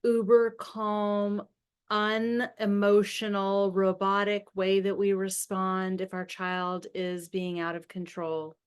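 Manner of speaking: slow, unemotional monotone; uber-calm and robotic. Shown as a demonstration. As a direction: drain the emotion out, slowly. Demonstrates robotic calm response.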